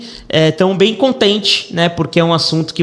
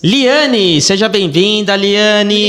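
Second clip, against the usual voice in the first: excited welcome; 4 semitones higher, much slower than usual. Acted. Co-host welcomes the guest.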